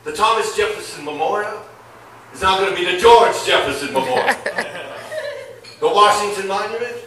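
mock Obama ranting, fed up with talking proper; a hint of Obama cutting loose, swaggering and loud; Barack Obama unleashed. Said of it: "You're gonna see the real Barack Obama".

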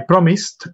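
"promised" ending like "mist"; correct pronunciation. Shown as a demonstration. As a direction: say "promised" with a short i in the second syllable. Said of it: "That is the pronunciation".

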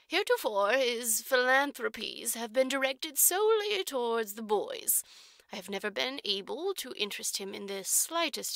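lightly voiced orphanage matron, measured and formal; a hint of a prim matron choosing her words; stern matron. Matron tells Jerusha about the trustee, prim and formal.

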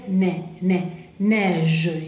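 "ne, neige" with a wide open E. Shown as a demonstration. Teacher drilling the vowel of neige, open E. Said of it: "es E abierta".

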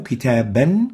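كتابا said with a final nun: kitaban; tanween pronounced. Shown as a demonstration. A teacher showing pupils how tanween sounds on كتابا. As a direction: stress the added nun at the end of كتابا. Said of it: "ومثال ذلك كتاب تكتب".

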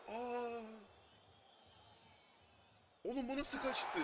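high disbelieving cries at a miss; shocked disbelief. Real, not acted. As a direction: yelp in disbelief at the save. Near miss, high shouts.

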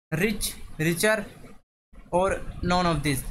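very slow, word by word; slow reading of options. Shown as a demonstration. Teacher reading the answer choices to students, very slow. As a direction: lay out the choices one at a time.

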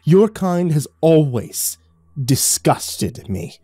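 drawn-out loathing; slow contempt. Acted. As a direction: stretch each word with disdain. Lucifer's contempt.

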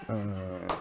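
soft, drawn-out "uh"; imitated moan. Showing friends the posted video, imitated moan. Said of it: "going like".

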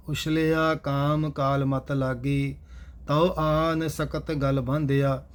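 steady, measured chanted reading of scripture; gurbani recitation. Acted. Teacher recites verses for the class in steady recitation. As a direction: recite each line evenly and devoutly.

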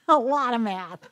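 laughing with a snort; snort-laugh through the words. Real, not acted. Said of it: "did you just snort".

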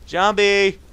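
high, loud drawn-out cry; alarmed shout. Real, not acted. Gamer spotting a zombie, high alarmed shout. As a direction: call out the threat.

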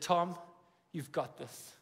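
soft, hushed quoting of his wife's "you've got this"; retold whisper. Pastor quotes his wife's goodbye in a soft whisper. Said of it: "she whispered in my ear".

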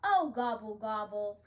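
loud "oh", then sinking away; mild turkey groan. A narrator's reading. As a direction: groan it out in storybook dismay. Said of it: "groaned Turkey".

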